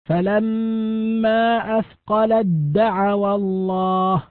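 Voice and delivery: "أثقلت دعوا" with the taa gone into a doubled dal, slow chant; recited assimilation. Shown as a demonstration. Teacher reciting a verse for students, taa merged into a doubled dal. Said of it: "تزول التاء تماما وتصبح دالا مشددة".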